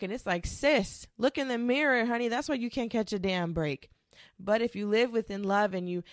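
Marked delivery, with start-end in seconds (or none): 0.5-3.9 sassy clapback. Retold or imitated. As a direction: tell her off with a sassy "honey". Retort to friend who complains.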